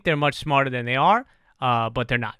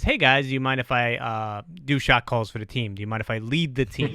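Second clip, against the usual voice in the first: soft, lowered, tentative request; humble, self-deprecating; 3 semitones lower, 3 dB quieter than usual. Retold or imitated. Player asking teammates to let him lead, humble. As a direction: ask permission meekly, not pushing. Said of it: "self-deprecating, humble way".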